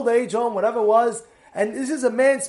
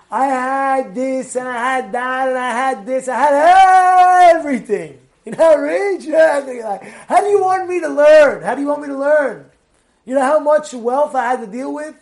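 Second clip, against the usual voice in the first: whiny rich man excuse; 4 semitones higher, 7 dB louder than usual. Retold or imitated. Rich man excusing himself, whining.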